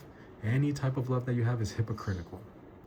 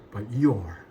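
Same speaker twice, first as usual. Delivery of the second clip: "your" punched out louder; stressed your; 6 dB louder than usual. Shown as a demonstration. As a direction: hit "your" hard and emphatic. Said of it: "I can just scream it out maybe".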